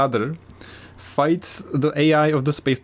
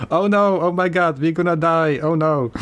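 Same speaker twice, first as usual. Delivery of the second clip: stilted bad voice acting; 2 semitones higher than usual. Mocking the English line in a Chinese film, stilted bad voice acting. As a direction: ham up the flat, unconvincing panic of a bad voice actor. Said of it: "This is how they say it".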